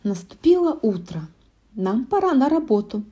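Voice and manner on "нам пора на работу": higher dwarf voice; dwarves voice. A narrator's reading. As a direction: chirp like a little dwarf. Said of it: "сказали Белоснежке гномы".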